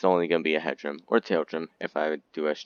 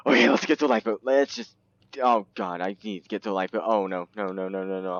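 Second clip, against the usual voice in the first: mock panic; 2 semitones higher, faster than usual. Ship sinks, mock panic.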